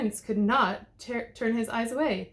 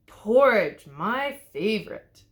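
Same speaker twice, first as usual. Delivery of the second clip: delighted; 7 dB louder, slower than usual. A narrator's reading. Wolf finds porridge.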